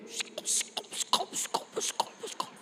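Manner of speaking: put-on whispered breathy babble of a little child copying dad's prayer; child mimicking prayer in tongues. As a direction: whisper it like a kid imitating tongues. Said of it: "Tiba-tiba dia gini".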